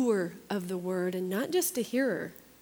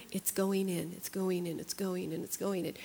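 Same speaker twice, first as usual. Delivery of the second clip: fading refrain; 2 semitones lower, 7 dB quieter than usual. Shown as a demonstration. Repeating the phrase as a refrain.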